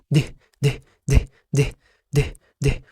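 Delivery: "د" said as a bare d with a sukun, no vowel after it; short d sound. Shown as a demonstration. Teacher models the letter D for the learner. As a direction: stop "د" dead with no vowel. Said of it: "مش دي".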